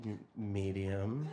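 low, soft, slow stammer; timid and halting; hesitant answer. Retold or imitated. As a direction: stumble quietly into an unsure answer. Unsure teens answering escort service.

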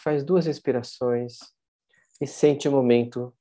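measured meditation guide, with long pauses; unhurried guided-visualization voice. Acted. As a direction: lead listeners gently inward, leaving room between phrases.

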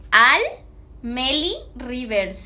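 Al punched loud, Meli Rivers drawn out slowly; nickname drawn out. Retold or imitated. Streamer repeating a viewer's nickname with a loud start. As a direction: hit Al, then stretch Meli Rivers.

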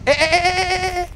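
high alarmed yelps; excited yelps. Real, not acted. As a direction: yelp as the car slides. Derrapa con el coche. (gritos agudos de alarma)

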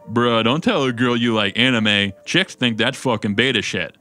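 a hint of a dumb bro; lightly voiced idiot. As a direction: lightly put on a know-it-all bro. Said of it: "some idiot who's like".

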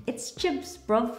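tossing off a London "It's chips, bruv"; mock English accent. Husband teasing about an English accent. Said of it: "get the baby to have an English accent".

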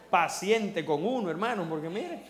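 laughing through the words. Real, not acted. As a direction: let the laugh break in as he speaks. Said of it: "laughs while preaching". (hablando entre risas)

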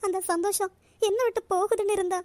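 on the verge of sobbing; acted tearful confession. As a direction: speak through tears, breaking into sobs at the end. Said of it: "அழுதுகிட்டு இருக்க".

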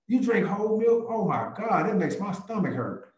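high mock horror at whole milk; playful teasing. Agent joking with a shopper in the milk aisle, mock horrified. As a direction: tease them about their milk. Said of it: "I'm gonna pick up two percent".

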